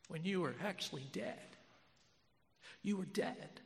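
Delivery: hushed, half-whispered tenderness; moved, near tears. Real, not acted. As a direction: speak softly, on the edge of crying. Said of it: "I'm sorry, I'll start crying".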